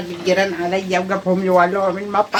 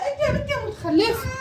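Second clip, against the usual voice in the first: laughing yell; 12 semitones higher, 4 dB louder than usual. Real, not acted. Mother yells at kids, laughing.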